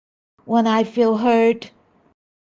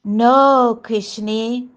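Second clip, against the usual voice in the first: sweet reassurance; slower than usual. Retold or imitated. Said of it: "looked at me very sweetly".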